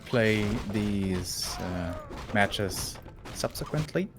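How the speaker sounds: slow, hushed golf commentator voice. Pretend. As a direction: ease into a calm golf broadcast tone. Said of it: "uh, your golf commentary".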